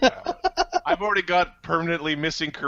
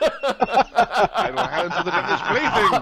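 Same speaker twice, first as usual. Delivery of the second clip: mock zealot; 5 semitones higher, 3 dB louder, slower than usual. Mock zealot pronouncement, laughing.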